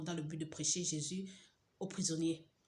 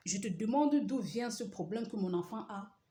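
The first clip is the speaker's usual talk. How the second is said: pleading; 4 semitones higher, 5 dB louder than usual. Retold or imitated. Pleading with God.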